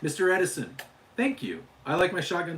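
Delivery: lightly put-on Hispanic accent; character demo in a Hispanic accent; a touch of playful Hispanic accent. Shown as a demonstration. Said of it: "he talks with a Hispanic accent".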